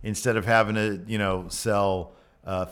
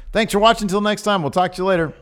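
hyped outro shout; 11 semitones higher, 8 dB louder, faster than usual. Acted.

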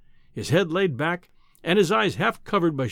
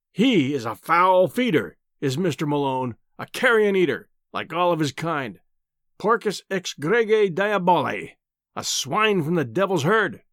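pompous professor. Acted.

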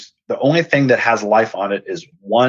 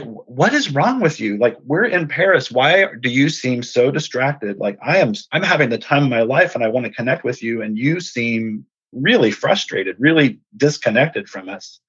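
retold spousal reproach, pitched up; imitating exasperated wife; 4 semitones higher than usual. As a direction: voice a wife's puzzled, mildly exasperated questioning. Wife confronts her distracted husband.

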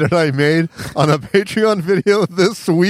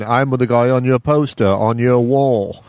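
mock sexy voice. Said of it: "really sexy voices".

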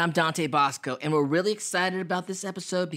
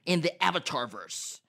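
movie trailer voice. Acted. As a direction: boom it like a movie trailer narrator. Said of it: "I put my Epic Voice guy, movie trailer voice on for that one".

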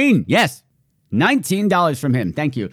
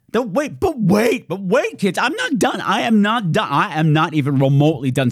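infomercial pitch; 4 semitones higher than usual. Pretend. Infomercial tease.

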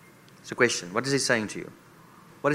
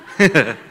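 short, loud burst of laughter; real laugh; 4 semitones higher, 8 dB louder than usual. Real, not acted. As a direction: laugh out loud at your own aside. Amused aside in Afrikaans.

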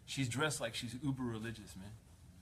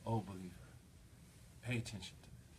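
gentle address; 2 semitones lower, 6 dB quieter than usual. Retold or imitated. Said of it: "is gently saying to you".

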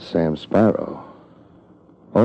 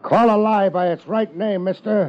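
higher, shouted across the road; shouting across; 10 semitones higher than usual. Acted.

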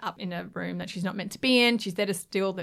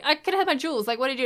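mild mock anger; 6 semitones higher, 3 dB louder, much faster than usual. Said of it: "she's pissed off".

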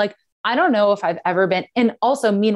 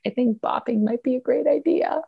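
forced agreement; 5 semitones higher than usual. Retold or imitated. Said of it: "I called him and I was like".

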